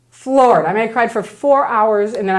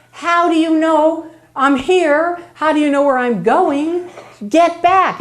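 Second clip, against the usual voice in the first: higher, slow, alarmed questions; 8 semitones higher, slower than usual. Retold or imitated. Cornered at the airport by the church vice president, alarmed and higher. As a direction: back away from her, high and startled.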